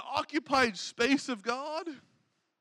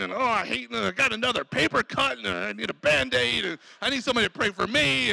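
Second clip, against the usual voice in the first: mock self-pitying grumble; grumbling complaint; 3 semitones lower, faster than usual. Bored cubicle worker waiting on God, grumbling. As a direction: ramble on like a complainer. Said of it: "we're grumbling and complaining".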